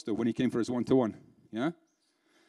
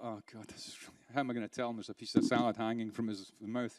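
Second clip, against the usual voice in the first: much softer, lower aside to oneself; private dismayed thought; 5 semitones lower, 8 dB quieter than usual. Retold or imitated. Employee watching salad hang from boss's mouth, dismayed thought. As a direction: think it under your breath. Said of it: "I just thought".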